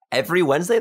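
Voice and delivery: retold surprised double-check; surprised question. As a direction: ask it back in mock disbelief, pitch lifting at the end. Echoing news of weekly tournament.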